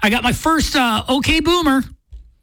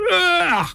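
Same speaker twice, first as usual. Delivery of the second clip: disgusted ugh; 6 semitones higher than usual. Retold or imitated. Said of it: "her face was like".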